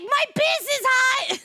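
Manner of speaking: hammed-up high wail of pain; mock pained brother. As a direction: squeal it like a burned brother. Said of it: "He was like".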